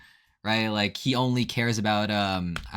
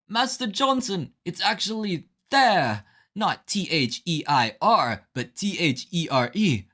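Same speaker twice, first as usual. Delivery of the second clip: much higher, slow pedantic student voice; know-it-all student Skip; 7 semitones higher, slower than usual. Retold or imitated. Skip correcting Master Johnson's spelling, in a high, smug voice. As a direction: correct the teacher like a smug nerd. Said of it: "And Skip will be like".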